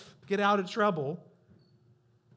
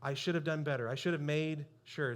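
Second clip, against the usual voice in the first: sincere apology; 3 semitones lower, 4 dB quieter than usual. Retold or imitated. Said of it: "I said".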